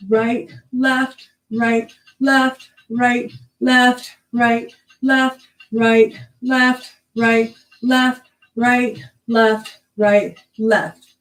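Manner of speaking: steady, evenly spaced count; dance cueing. Shown as a demonstration. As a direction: call out the steps on the beat. Calls moves to a steady count.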